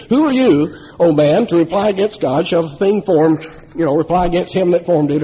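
Bible read aloud with rising force; scripture reading. Shown as a demonstration. Preacher reading Romans nine to the church, solemn and rising. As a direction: proclaim it like scripture. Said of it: "this is the way it reads".

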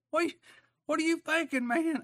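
high, loud, incredulous cry of what are you thinking; incredulous outburst. Retold or imitated. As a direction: throw the question up in laughing disbelief. Preacher mocks himself, laughing.

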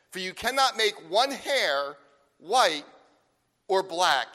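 scripture read with weight; solemn scripture reading. Acted. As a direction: proclaim the verses deliberately to the congregation. Reads scripture aloud.

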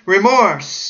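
high loud cry of "Remorse". Retold or imitated. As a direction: cry the word out. Dying man cries word.

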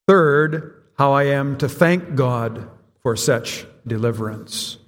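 measured, deliberate reading aloud; formal congregational reading; catechism recitation. Acted. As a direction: recite it steadily in even phrases, pausing between them. Congregation's set response recited.

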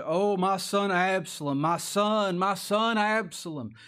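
drawn-out, slow retold lament; imitating David's loud, slow wail of grief; crying out loud. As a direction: cry out slowly as a grieving father, mildly acted. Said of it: "He cried out loud".

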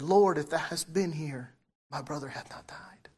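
a soft, broken-down plea trailing away; fallen at his feet. Retold or imitated. Mary falls at Jesus' feet over her dead brother, subdued. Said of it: "She fell and said".

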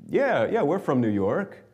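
put-on high, playful New York accent. Older women answering two travelers, mimicked New York accent. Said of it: "they must be from New York or New Jersey".

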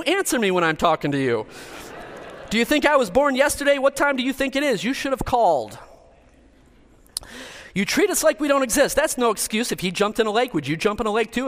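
a fed-up father laying down the law, building heat; ranting parent. Acted. Preacher performing a parent's tirade at a child, hammed-up yelling. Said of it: "Seventy Sayings of a Parent".

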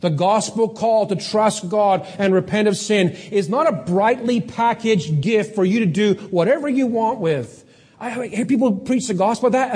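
ordinary delivery

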